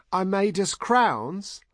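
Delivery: very high, slow, loud Heather-like squeal of pride; high-pitched proud yell; excited shout. A narrator's reading. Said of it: "Heather shouted".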